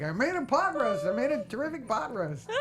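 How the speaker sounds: high, hammed-up Jewish accent; comic Jewish-accented line with swooping tune; mock Jewish accent. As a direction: put on an exaggerated Jewish accent. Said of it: "I'm like, I just felt like".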